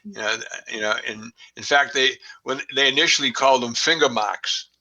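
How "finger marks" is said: Boston accent, "marks" said "mahks" with no r; r-dropping Boston "finger marks". Real, not acted. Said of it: "excuse my Boston accent".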